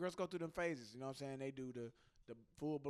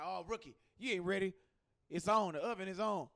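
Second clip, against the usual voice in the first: mocking roommate; 3 semitones higher, 8 dB louder than usual. Roommate voiced taunting him.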